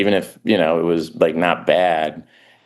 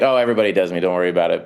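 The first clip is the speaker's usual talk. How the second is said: a light Christopher Walken imitation; much faster than usual. Comedian retelling meeting Walken, lightly imitating his voice. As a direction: lightly mimic the actor's offhand reassurance. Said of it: "Christopher Walken was like".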